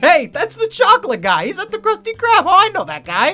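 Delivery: high, loud, excited voice. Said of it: "be like".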